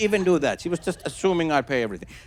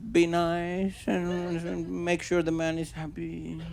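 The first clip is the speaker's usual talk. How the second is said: hesitant answer; 7 dB quieter, slower than usual. Retold or imitated. Date hesitantly defines woman's role.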